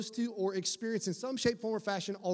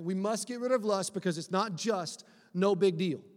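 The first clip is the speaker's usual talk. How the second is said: rhyme repeated. Shown as a demonstration.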